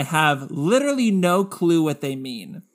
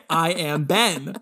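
hammed-up voice teacher impression; Lena impression; 6 dB louder than usual. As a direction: boom it like a proud voice teacher. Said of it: "really good Lena impression".

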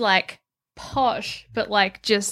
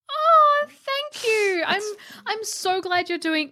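gushing villager; 4 semitones higher than usual. Retold or imitated. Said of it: "people take your furniture, like".

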